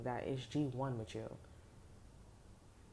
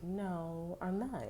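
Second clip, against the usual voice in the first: higher-pitched, drawn-out refusal; lightly acted protest; mock denial; 5 semitones higher, much slower than usual. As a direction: push back with a lifted voice. Acts out listener denying it.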